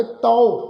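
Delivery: ਤਉ pronounced "tau"; kanaura vowel. Shown as a demonstration. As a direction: demonstrate ਤਉ with an open "au" ending. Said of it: "ਕਨੌੜੇ ਦੀ ਮਾਤਰਾ".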